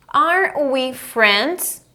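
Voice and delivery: very slow, stretched question; drawn-out classroom demo; model for repeating. Shown as a demonstration. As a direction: space out each word for learners.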